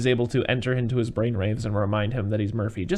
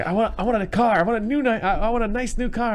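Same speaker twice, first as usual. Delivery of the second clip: much higher, louder whiny demands; mock whiny mayor; 11 semitones higher, 4 dB louder than usual. Old mayor demanding his job back, high whine. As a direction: whine like a spoiled old politician.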